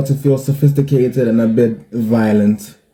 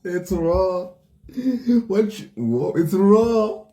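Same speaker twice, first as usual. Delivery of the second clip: mock outrage; 8 semitones higher, 3 dB quieter, slower than usual.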